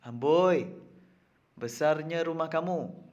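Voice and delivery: exclamation. Shown as a demonstration. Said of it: "didahului oleh kata seru".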